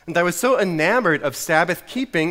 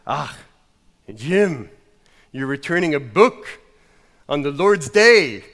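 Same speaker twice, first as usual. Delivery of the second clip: scandalised mock Scot, broken by long pauses; bad Scottish accent; 3 dB louder than usual. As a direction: reproach in a hammed-up Scottish accent. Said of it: "keep going with my Scottish accent".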